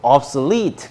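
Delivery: obsolete with the weight on -lete; stress on final syllable. Shown as a demonstration. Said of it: "여기에 강세가 있어요". (obsolete의 lete에 강세를 주어)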